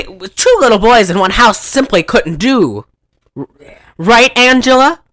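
lightly hammed-up aunt; a hint of a theatrical, leading aunt; Aunt Martha. Aunt coaxing the child to agree, lightly acted. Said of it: "Aunt Martha's going".

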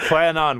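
"goeienaand" with a bit of phlegm on the first sound; phlegmy Afrikaans. Shown as a demonstration. Host overdoing the caller's greeting, phlegmy Afrikaans. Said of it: "Just do a bit of phlegm".

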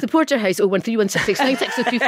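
chirpy recorded greeting read for the machine; answering machine greeting. Retold or imitated. Girl recording the family answering machine message, chirpy and loud. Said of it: "Anything that was recording something, I was there".

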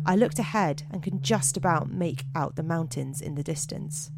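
measured spooky-tale narration; deliberate storyteller read; story narration. A narrator's reading. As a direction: read it out like a campfire mystery, pausing between phrases.

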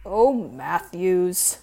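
a light tut at the deputy; tutting. Acted. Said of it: "he tutted".

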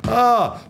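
big high burst of laughter; loud laugh. Real, not acted. The storyteller laughing at his own punchline, loud and high. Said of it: "Then the next day I got shot".

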